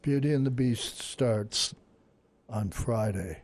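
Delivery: calm, unhurried public radio host; NPR drawl. Pretend. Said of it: "Listen to my N P R drawl".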